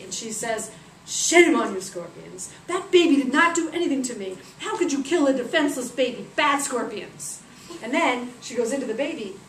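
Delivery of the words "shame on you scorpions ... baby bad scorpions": firm, emphatic telling-off; scolding. Acted. Isis shaming her scorpions, emphatic scolding. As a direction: scold like a cross mother.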